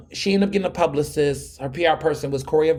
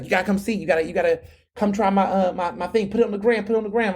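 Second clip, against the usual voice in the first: eager, higher-pitched imitated pleading; hyped; 4 semitones higher, faster than usual. Business owner urging him to post her food, hyped. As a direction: push the request with excited, repeated urging. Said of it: "she was hyped".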